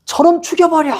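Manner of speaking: high-pitched imitated cry for blood; mock mob shout. Crowd trails the stretcher wanting Paul dead, mock shouting. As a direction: call out like one of a lynch mob. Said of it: "막 계속 소리 지르는 거야".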